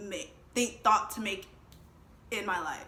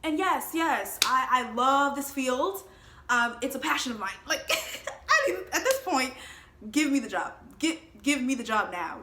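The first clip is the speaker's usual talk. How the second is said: eager; 4 semitones higher, 6 dB louder than usual. Retold or imitated. Over-eager job plea.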